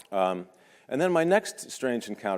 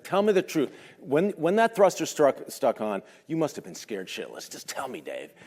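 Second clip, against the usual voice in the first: pleading; 5 semitones higher than usual. Retold or imitated. Pressing Dave for the truth.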